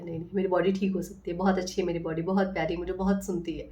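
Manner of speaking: softly praising her own body; loving self-talk. Retold or imitated. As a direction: soothe it like a child, gently. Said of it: "मैंने बहुत प्यार से".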